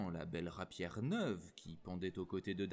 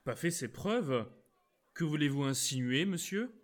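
louder, bristling retort; a young Gascon taking the bait; indignant; 5 semitones higher, 5 dB louder than usual. Acted. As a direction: preuves flung back in offence.

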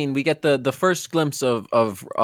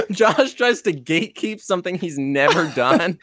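laughing. Real, not acted. Teasing while laughing.

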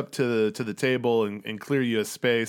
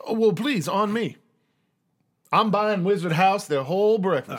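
raised, genteel insistence; courtly old host treating the table; old colonel; 6 semitones higher, 3 dB louder than usual. Acted. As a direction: press the offer like a generous old Southern gentleman. Jiro insists on treating them.

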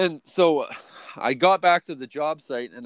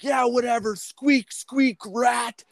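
very high squeaky rat taunt; mocking squeak; 12 semitones higher, slower than usual. Worker taunting the boss as a snitch rat, squeaky. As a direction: squeak like a rat to mock him.

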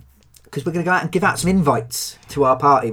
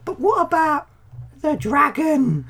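excited; 12 semitones higher than usual. Acted. Excited in-character dragon idea.

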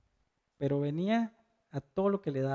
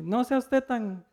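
coarse coworker; 6 semitones higher, slower than usual. Retold or imitated. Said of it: "le decía al otro".

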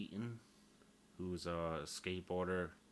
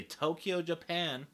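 high, loud mock redneck twang; 10 semitones higher, 10 dB louder, slower than usual. Podcaster mimicking a redneck naming Tokyo, loud country twang. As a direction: pitch it up, redneck style. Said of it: "how a real redneck would describe".

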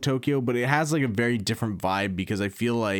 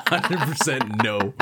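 laughing; slower than usual. Real, not acted. Repeating the vote, laughing.

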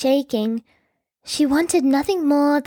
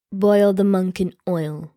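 a hint of a cruel king; king's sentence; 5 semitones lower than usual. A narrator's reading. King sentencing the monk, low and cold. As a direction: lower king voice, cold and even. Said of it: "he said".

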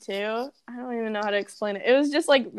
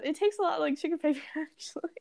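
fast, slightly higher rattled-off quote; rushed Harry quote; 5 semitones higher, 5 dB quieter, faster than usual. Shown as a demonstration. Fan racing through Harry's fast line, fast. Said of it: "I can't even say it that fast".

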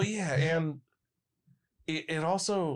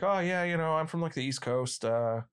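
Impression of a rock singer. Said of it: "'Cause he talks like this".

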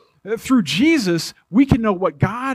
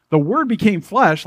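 puzzled, half-joking disbelief; incredulous question; 3 semitones higher than usual. Pretend. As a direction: repeat the verse as if you can't believe it. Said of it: "It's like, what?".

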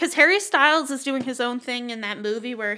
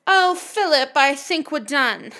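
bored diva; 3 semitones higher, 3 dB louder, slower than usual. Pretend. Imagined divorce scenes, diva voice.

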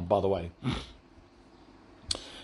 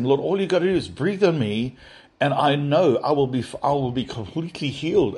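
unreasonably angry; 4 semitones higher than usual. Retold or imitated. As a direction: demand it like a hurt, angry child. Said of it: "I got unreasonably angry and started".

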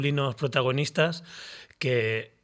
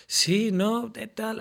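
put-on flustered young self; 7 semitones higher, much slower than usual. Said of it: "Y yo".

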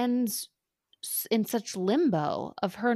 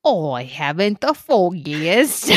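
laughing; 5 dB louder, slower than usual. Real, not acted. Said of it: "posh phrase said with a laugh".

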